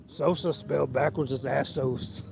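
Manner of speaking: slow, drawn-out attempt at Harry Carey; a modest try at Harry Carey, spoken slowly; Harry Carey impression. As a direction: stretch it out like an old ballpark announcer. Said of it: "I can't do a good Harry like you, teacher, but I'll try".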